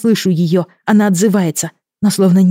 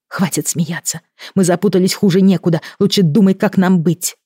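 furious; 4 semitones higher, 4 dB louder than usual. Acted. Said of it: "яростно обернулась".

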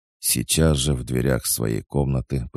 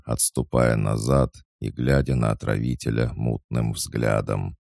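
usual speaking voice

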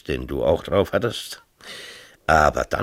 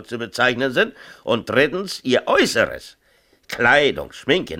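retold official list; 5 semitones higher than usual. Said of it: "sagt er".

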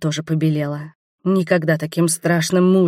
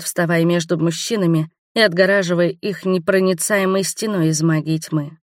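usual speaking voice

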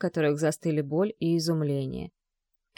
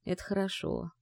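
a much softer, under-the-breath mutter; 9 dB quieter than usual. A narrator's reading. Father mutters to himself, thinking it over. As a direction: say it almost to yourself. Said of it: "а затем пробормотал".

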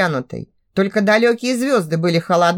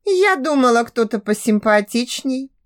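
cheeky mockery; 4 semitones higher than usual. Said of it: "усмехнулась дерзко".

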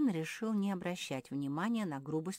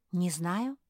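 unsure, rising I-don't-know; confused; 3 semitones higher, 7 dB louder than usual. Acted. Mafi, puzzled, answers Hortense's question. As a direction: trail up, at a loss. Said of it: "растерялась Мафи".

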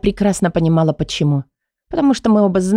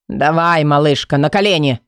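low commanding male; 3 semitones lower than usual. Acted. Kai ordering her down.

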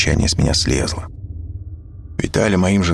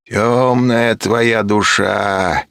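menacing curse; 5 semitones higher, much slower than usual. A narrator's reading. Serafima cursing him.

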